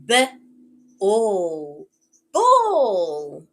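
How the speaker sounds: "B" as buh, pause, long "all", loud "ball"; onset-rime blending. Shown as a demonstration. Teacher models word puzzle for child, segmented then blended "ball". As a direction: sound out "B" and "all" apart, then land on "ball". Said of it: "What word am I saying?".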